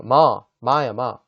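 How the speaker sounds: "마" loud and open; stressed syllable. Shown as a demonstration. Teacher drilling the stressed syllable, loud "마". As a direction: punch "마" as the strong syllable. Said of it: "마가 강세가 있으니까 좀 크게".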